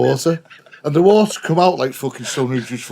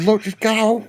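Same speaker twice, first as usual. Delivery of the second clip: urgent plea; 11 semitones higher than usual. Retold or imitated. House on fire, urging her out.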